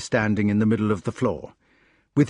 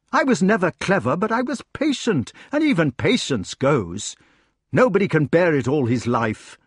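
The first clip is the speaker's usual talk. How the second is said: mounting, pained protest; aggrieved king; 4 semitones higher than usual. Acted. King protesting to those who drove him, aggrieved. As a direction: plead that patience has run out.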